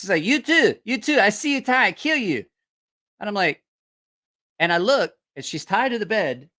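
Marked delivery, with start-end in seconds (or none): 0.2-2.4 full-on shouting, high-pitched yell. Retelling what a young lady in the room was yelling: imitating someone yelling. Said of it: "I hear a young lady in there yelling".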